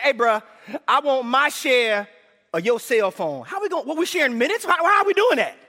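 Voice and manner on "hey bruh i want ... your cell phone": casual demand. Retold or imitated. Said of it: "that'd be like me saying".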